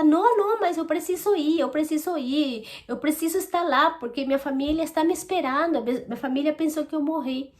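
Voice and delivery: high-pitched start, easing slightly; mock desperate plea, not shouted; retold desperate cry. Woman retelling how she insisted her family was waiting, desperate. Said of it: "aí eu gritava desesperada".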